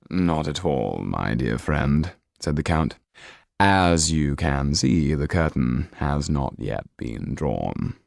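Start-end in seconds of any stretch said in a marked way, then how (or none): 0.1-2.1 lower, slow and smooth count; a suave count, unhurried and low. Acted. The Count calmly answering his host, lower and slow. 3.6-8.0 lower, slow and smooth count; a suave count, unhurried and low. Acted. The Count calmly answering his host, lower and slow.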